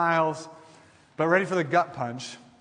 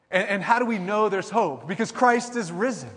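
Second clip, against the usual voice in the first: raised, higher, driving proclamation; preaching climax; 6 semitones higher, 4 dB louder than usual. Real, not acted. Pastor answering his own question to the congregation, raised and triumphant. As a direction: build it to the peak of the sermon.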